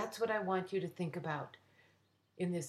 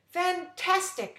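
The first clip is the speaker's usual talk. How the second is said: high, loud, slow drawn-out cheer; shouting; 11 semitones higher, 7 dB louder, slower than usual. Acted. The captain cheers the fireflies, loud and drawn-out. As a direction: savor the word as a cheer. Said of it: "shouted Captain Fiona Ferenczi".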